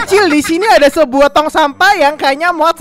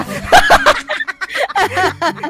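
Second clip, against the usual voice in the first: squealing laugh, pitched way up; high burst of laughter; 10 semitones higher than usual. Real, not acted. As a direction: let a high giggle burst out. (tawa melengking tinggi)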